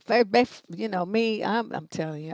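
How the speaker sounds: ordinary talk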